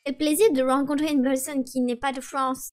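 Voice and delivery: put-on French spoken with a mild American accent; Emily's lightly put-on American accent in French. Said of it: "avec votre accent ridicule".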